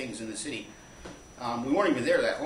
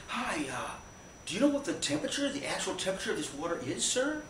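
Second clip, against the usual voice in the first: high-pitched tripping pool pest; Mike; 7 semitones higher than usual. Retold or imitated. Mike accosting strangers in the pool, goofy and high. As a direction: pester politely in a silly high voice.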